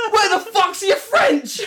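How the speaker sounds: high, laughing challenge; mock outrage. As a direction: call him out in pretend indignation. Mock outburst at a friend, laughing.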